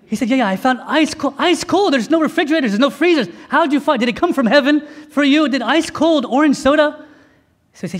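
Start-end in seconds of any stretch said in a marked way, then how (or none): 0.3-7.1 can't believe ice cold soda exists; amazed disbelief. Retold or imitated.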